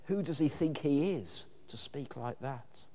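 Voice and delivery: scornful, dismissive question; a scoffing sneer of disbelief; negative intonation. Retold or imitated. A doubter in the crowd scoffing at Jesus, dismissive. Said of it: "with a more negative intonation".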